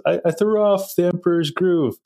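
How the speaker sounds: a hint of a wise old man musing; half-playful old-man quote; quoting the old man. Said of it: "He goes".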